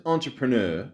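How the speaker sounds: ENTREPRENEUR savored with a showy flourish; "entrepreneur" said with playful relish; relished pronunciation. Real, not acted. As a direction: relish every syllable of "entrepreneur". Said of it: "I just love saying it like that".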